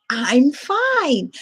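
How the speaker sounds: lightly squeaky puppet reply. Shown as a demonstration. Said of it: "I give him a voice".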